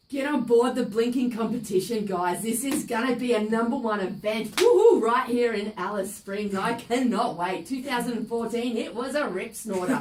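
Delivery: loud, broad Aussie superfan hype; ocker superfan. Acted. Superfan hyping the blinking event, loud and broad. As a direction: pump up the crowd like a true-blue fan.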